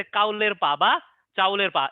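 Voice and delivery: কাউলের পা বা চাউলের পা said slowly, each word spelled out; pronunciation demo. Shown as a demonstration. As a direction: say কাউলের পা, then চাউলের পা, slow and clear. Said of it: "কি উচ্চারণ?". (ধীরে ধীরে উচ্চারণ দেখানো)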